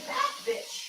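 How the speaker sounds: high, shocked squeal of that bitch. Real, not acted. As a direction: squeak it in disbelief. Shocked exclamation.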